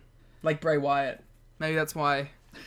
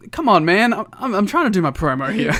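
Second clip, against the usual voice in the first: mock whiny plea; 3 semitones higher, 7 dB louder than usual. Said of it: "He's like".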